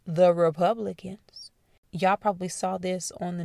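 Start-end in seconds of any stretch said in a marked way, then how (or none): 0.1-1.5 whispered aside. Real, not acted. Whispered aside about Republicans.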